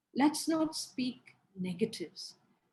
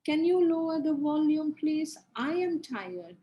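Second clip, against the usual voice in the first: calm tired request; 3 semitones higher than usual. Shown as a demonstration. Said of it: "You can say".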